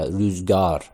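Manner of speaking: روزگار with the آ held a little longer; slightly long a. Shown as a demonstration. Teacher showing students the lengthened آ in روزگار. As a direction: stretch the گار in روزگار just slightly. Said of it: "یه اندک".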